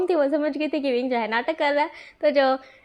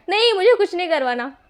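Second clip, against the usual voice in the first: higher, louder panicked no; alarmed protest; 5 semitones higher, 4 dB louder than usual. Acted. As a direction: blurt it out in alarm. Jumps up in alarm. (ऑपरेशन के नाम से घबराकर चिल्लाता विंग)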